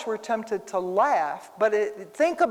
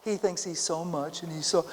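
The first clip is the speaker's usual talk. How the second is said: softer, lower, sneering under the breath; mild mock sneer; 3 semitones lower, 5 dB quieter than usual. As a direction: sneer like a gossiping coworker. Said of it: "some people laugh like".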